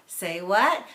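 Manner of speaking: loud chanted call-back; loud playful response; kids' call-back. Shown as a demonstration. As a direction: call it out like the kids answering. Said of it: "So here's an example".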